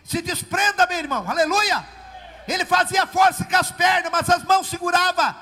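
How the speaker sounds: loud, high, shouted exhortation; preaching at full force. Acted. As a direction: rouse the congregation, shouting.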